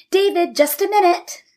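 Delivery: high excited call; yelled. A narrator's reading. Malka calling to David at the door, high and eager. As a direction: call through the door to him. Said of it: "Malka yelled".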